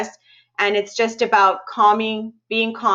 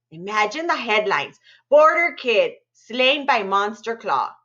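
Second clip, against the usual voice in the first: lively read-aloud narration with spooky dips; storytelling voice. A narrator's reading. Librarian reading a scary story to students, animated storytelling. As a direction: tell it like a campfire tale to kids.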